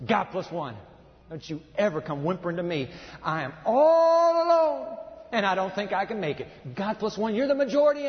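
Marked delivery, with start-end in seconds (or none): 1.3-6.5 whiny self-pity, hammed up; mock whimpering complainer.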